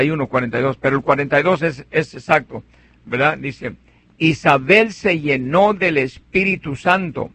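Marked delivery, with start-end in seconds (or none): 4.2-7.3 slow scripture reading. Shown as a demonstration. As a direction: read slowly, word by word. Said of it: "Comienza decir, diciendo así".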